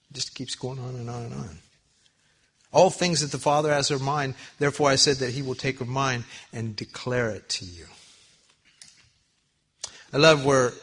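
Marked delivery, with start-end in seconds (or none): 2.7-7.9 loud Bible reading from the pulpit; scripture reading. Acted. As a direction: proclaim the verse firmly. Reads scripture aloud emphatically.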